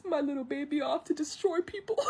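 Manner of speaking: high, hammed-up proud-parent weepiness; mock teary. Mushu seeing his baby off, mock teary. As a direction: coo it high, as if tearing up, half laughing. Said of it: "he gets teary-eyed".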